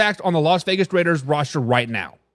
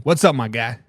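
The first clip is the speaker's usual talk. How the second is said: normal talking voice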